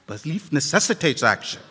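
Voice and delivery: soft, low repeat of the phrase; quiet echo. Shown as a demonstration. Preacher echoing his point to the congregation, softly. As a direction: let it sink in softly.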